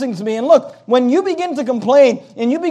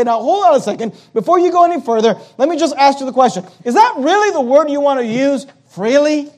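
higher, incredulous questioning; challenging interruption; 3 semitones higher than usual. Acted. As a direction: cut in and challenge their choice of word. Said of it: "stop them and say".

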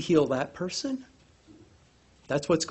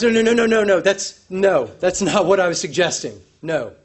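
emphatic refusal; 5 dB louder than usual. Pretend. Centurion rejecting Jesus coming home, insistent. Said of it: "The centurion replies".

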